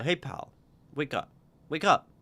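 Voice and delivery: a loud, urgent wake-up call; calling to wake him. Acted. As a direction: rouse a drunk sleeping in the hold. Waking a sleeping man.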